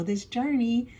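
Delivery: ordinary delivery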